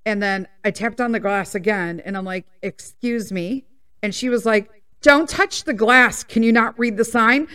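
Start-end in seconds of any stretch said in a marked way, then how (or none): 2.6-3.7 slow, drawn-out "Excuse me" rising at the end; pointed insistence. Retold or imitated. Ignored mom tapping the glass again, slow and pointed. 5.0-7.5 snippy tone. Retold or imitated. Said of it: "do not take that fucking tone".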